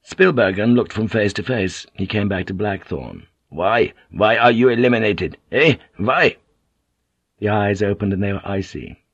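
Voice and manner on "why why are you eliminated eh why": insistent, raised questions; loud demanding. Acted. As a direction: press him hard for an answer. Demanding an answer.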